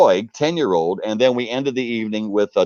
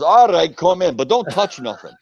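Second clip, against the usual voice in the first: stern lady's warning; 6 semitones higher than usual. Retold or imitated. Lady lets them in, warning.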